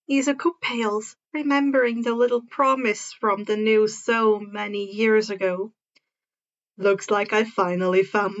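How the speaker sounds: a hint of a smug older hero; slightly low, playful swagger; lightly voiced Hawks.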